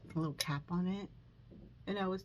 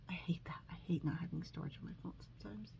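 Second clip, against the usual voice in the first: soft muttered complaint; 7 dB quieter, faster than usual. Real, not acted. Grumbling aside while recording.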